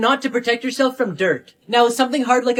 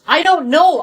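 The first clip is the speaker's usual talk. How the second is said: panicked outburst; 6 semitones higher, 7 dB louder, slower than usual. Acted. Daughter panicking.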